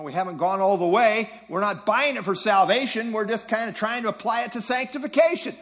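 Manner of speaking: lightly acted self-justifying; excuse-making. Teacher voicing those who tolerate false doctrine, making excuses. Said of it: "let that alone and say".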